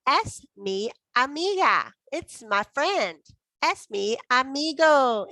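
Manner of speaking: teacher modelling phrases slowly for repetition; slow drill. Shown as a demonstration. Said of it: "You have to say it lots of times".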